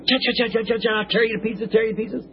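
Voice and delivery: lightly voiced chipmunk scolding; chipmunk chatter. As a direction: chatter like an angry little chipmunk. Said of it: "a little chipmunk sitting there going".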